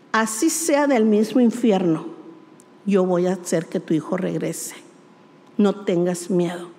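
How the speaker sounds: a hint of a deep reassuring divine voice; voice of God. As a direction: speak as God, low and calm. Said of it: "Y el Señor me dijo".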